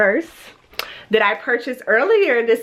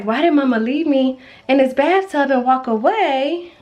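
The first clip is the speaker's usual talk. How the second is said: high, sing-song mock whine; imitated crying son; 4 semitones higher than usual. Mom voicing the son left in the bathtub, mock whine. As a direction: play up a little one's pitiful complaint. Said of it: "he's over here crying 'cause he's like".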